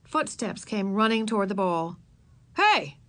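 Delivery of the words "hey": high, loud sudden call; boy exclaiming. A narrator's reading. Boy finding a child behind trash cans, exclaiming. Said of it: "exclaimed a boy's voice".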